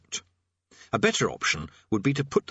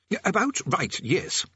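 hesitant hidden prisoner; 8 semitones higher, slower than usual. A narrator's reading. Hidden prisoner voiced as the statue.

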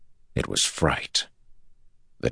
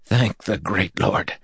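relieved; 6 semitones higher, slower than usual. Acted.

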